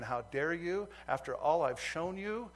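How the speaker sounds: God's reproach, voiced with growing force; indignant rebuke. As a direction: scold in disbelief, rising to a loud finish. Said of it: "fire indignation of the Lord on me saying".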